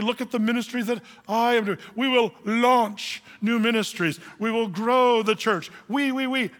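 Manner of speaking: a mild mock of a proud preacher; lightly hammed-up self-important boasting; boastful big head. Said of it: "we start thinking".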